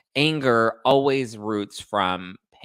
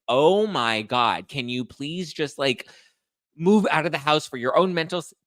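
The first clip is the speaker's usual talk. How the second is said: exasperated plea; 4 semitones higher than usual. Retold or imitated. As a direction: beg her, fed up, to just move out. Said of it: "where I'm just like".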